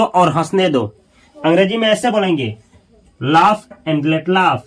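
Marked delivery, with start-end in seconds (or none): 3.2-4.6 drawn out, word by word; slow model reading. Shown as a demonstration. Teacher drilling the phrase for students, very slow. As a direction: say it slowly for learners. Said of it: "teacher models the English phrase".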